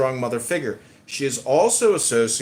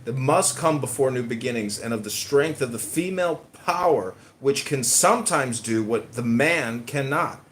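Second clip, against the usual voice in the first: reading aloud. Acted. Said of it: "It says".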